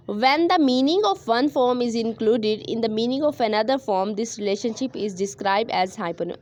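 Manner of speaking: very slow, word by word, for students to write; slow dictation. Shown as a demonstration. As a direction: read the definition out slowly like dictation. Teacher dictates English definition. (धीमी आवाज़ में dictation)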